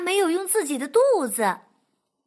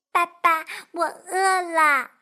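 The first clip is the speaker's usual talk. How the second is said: whiny duckling; 4 semitones higher, 3 dB louder than usual. Acted. Duckling whining to the fox that it's hungry. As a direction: whine it like a sulky chick.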